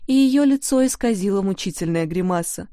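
ordinary delivery, nothing marked

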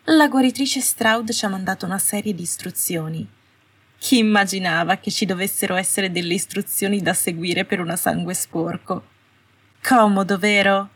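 a small shrill-edged witch mocking the rules; brittle sarcasm. Astoria mocking the healer's instructions to Malfoy, sarcastic and brittle. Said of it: "Il sarcasmo nella piccola voce acuta".

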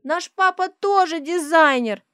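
put-on high, loud little girl announcement; loud excited child's voice; shrieking child. A narrator's reading. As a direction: blurt it out to the whole hall. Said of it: "трезвонит на весь проход".

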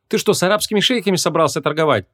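high-pitched, incredulous question; mock his greedy price; scoffing. A narrator's reading. Vanessa challenges the mage's price, scoffing. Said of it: "фыркнула Вон".

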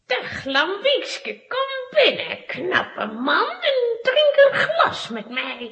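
slow, teasing invitation with giggles; seductive coaxing. Acted. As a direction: lure him in sweetly. Witch seduces Lambiek.

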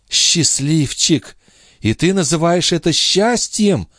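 mock his happiness; scornful. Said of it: "презрительно спросила Лоренцо".

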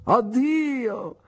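pompous farewell, fading at the end; Mr Micawber. Acted. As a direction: declaim it from the back of the coach.

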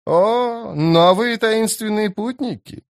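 very high, slow, grating croon; screechy creepy woman. A narrator's reading. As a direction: screech it with drawn-out delight. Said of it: "проскрежетала женщина". (высокий скрипучий голос, протяжно)

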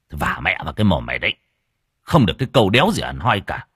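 fast, annoyed snap; irritated. Acted. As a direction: cut her off crossly. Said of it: "Anh Tài bực bội". (anh Tài bực bội mắng vợ, nói nhanh)

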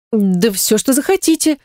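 lightly voiced rash promise; rashly eager. A narrator's reading. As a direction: blurt it without thinking. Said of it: "сгоряча пообещала я".

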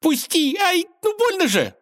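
captured mouse squealing at the cat; squeaky mouse. A narrator's reading. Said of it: "шипела мышь".

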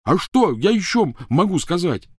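high, loud exasperated protest; yelling. Acted. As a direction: yell back in frustration. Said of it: "заорал Рон".

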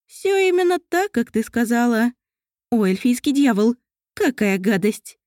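put-on elf girl spitting out sour grape; christmas elf. Mariel disgusted by sour grape.

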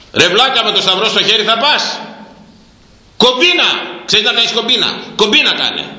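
high jeering voice of a scoffer; mocking scoffer. Preacher mimics people mocking the faithful, high jeering. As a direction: sneer it like the mocking crowd. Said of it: "έτσι δεν σου λένε".

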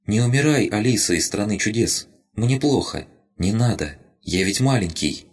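a tiny creature pleading to stay; pleading rabbit spirit. Acted.

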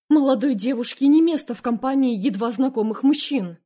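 curt. Acted. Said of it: "обрубила Аманда".

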